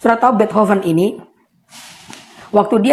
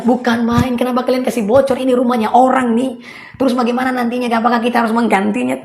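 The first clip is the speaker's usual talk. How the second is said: pretend complaint; 5 semitones higher than usual. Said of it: "Yesus tidak bilang".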